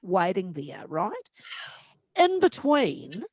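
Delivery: ordinary talk, nothing marked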